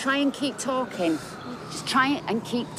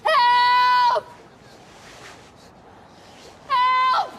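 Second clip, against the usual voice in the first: high, loud shriek for help; desperate scream; 13 semitones higher, 5 dB louder, much slower than usual. Acted. Woman over a stabbed boy, screaming for help. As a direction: scream for anyone to come.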